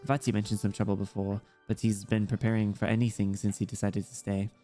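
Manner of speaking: lightly voiced child with German accent; understated German-accented character voice; German-accented young girl. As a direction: chat like a German kid, lightly.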